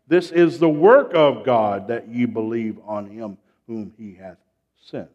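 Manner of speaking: emphatic reading settling to a hush; preacher reciting a verse, easing off at the end; scripture recitation. Real, not acted.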